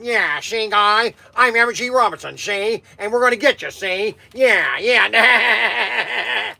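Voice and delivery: a light gangster voice with a see at the end of each line; lightly voiced old movie mobster, laughing at the end; a hint of a tough-guy gangster drawl; M G Robinson. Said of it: "you can be M G Robinson".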